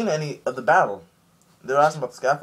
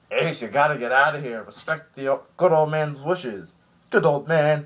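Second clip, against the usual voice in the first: earnest Jinbei; 3 semitones higher, 3 dB louder than usual. Retold or imitated. Jinbei urging Ace tearfully.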